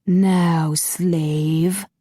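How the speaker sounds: muffled villain's curt order; cold command. A narrator's reading. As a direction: order the slave coldly. Master Han commanding.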